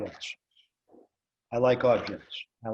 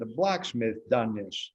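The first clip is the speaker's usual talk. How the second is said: slow, lightly voiced old farmer; old farmer's talk; slower than usual. Imitating the old farmer next door, slow and lightly voiced. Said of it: "That's how he talked".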